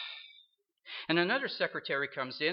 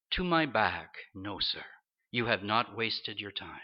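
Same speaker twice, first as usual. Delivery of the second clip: clear and encouraging; 6 semitones lower than usual. Retold or imitated. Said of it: "clear and encouraging".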